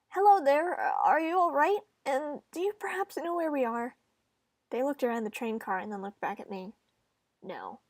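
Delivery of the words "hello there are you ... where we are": bright greeting. Acted.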